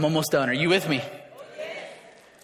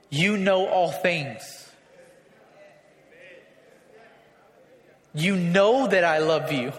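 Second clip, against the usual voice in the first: slow, low, with long pauses; humble surrender; 3 semitones lower, slower than usual. Acted. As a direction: confess it humbly, word by word. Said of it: "so much certainty about himself, but on this side".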